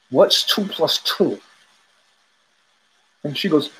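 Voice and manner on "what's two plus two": slow, pointed mock fury; mock enraged teacher. Enraged teacher repeating the question to a student, slow mock fury. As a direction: drag out the question like a furious teacher. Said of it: "he's shaking from rage".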